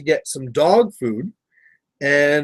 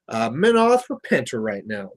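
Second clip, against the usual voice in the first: ordinary delivery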